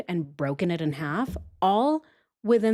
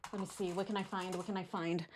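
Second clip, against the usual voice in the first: much softer, half to oneself; quiet searching self-talk; 12 dB quieter than usual. Acted. Host pretends to hunt for a pin, quiet muttering. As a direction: mumble softly while pretending to hunt.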